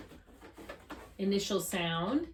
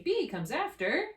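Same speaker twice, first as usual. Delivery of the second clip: slow model answer; 5 semitones higher, slower than usual. Shown as a demonstration. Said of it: "So if I give you the letter B, you will say".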